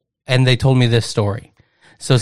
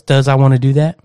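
dog's inner voice. Retold or imitated. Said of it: "hears what you say and goes".

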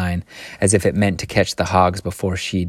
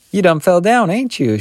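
high-pitched, fussing concern; solicitous; 11 semitones higher, 4 dB louder than usual. A narrator's reading. Old woman asking after a fall, solicitous. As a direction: ask it high, full of solicitude. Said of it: "she asked in a solicitous voice".

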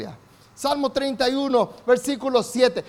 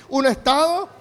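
loud call-out; 4 semitones higher, 5 dB louder than usual. Real, not acted. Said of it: "digan bien fuerte".

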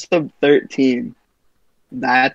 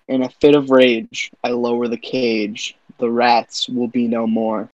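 poem reading. Acted. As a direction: read it like a dark ballad. Reads own poem Rats.

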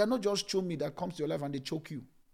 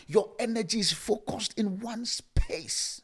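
hushed and slow; slow whisper; 5 semitones higher, 4 dB louder, slower than usual. Acted. Preacher whispers about focus to the congregation. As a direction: breathe the words out.

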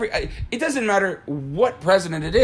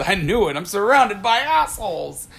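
exasperated movie quote; 4 semitones higher than usual. Retold or imitated. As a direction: proclaim it like an annoyed captain. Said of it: "And then he says".

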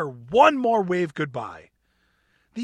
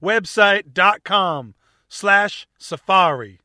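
attempted Australian accent; 6 dB louder than usual. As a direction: do a shaky Australian accent announcing the sponsor. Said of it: "I was going for Australian".

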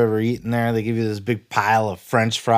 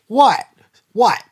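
higher, louder mock disbelief; mock surprise; 9 semitones higher, 4 dB louder than usual. Host answering an imagined Mojo fan, mock surprise. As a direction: snap back at an imagined fan in pretend surprise.

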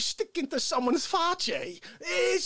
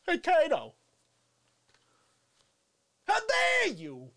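a hammed-up indignant yell at Kato; theatrical how-dare-you; mock outrage; 3 semitones higher than usual. Shown as a demonstration. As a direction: put on a show of offence. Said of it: "This is what I do".

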